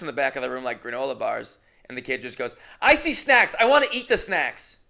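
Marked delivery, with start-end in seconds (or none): 2.8-4.8 put-on high, loud little boy voice; imitating the kid. The kid announcing the snacks to the room, high and loud. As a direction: whine it like a greedy nine-year-old. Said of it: "Seriously, that's how he talks".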